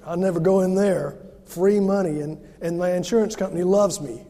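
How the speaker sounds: loud mocking sneer; sarcastic cynic. Preacher's inner cynic mocking the free money banner, loud sarcasm. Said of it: "the old cynic in me said".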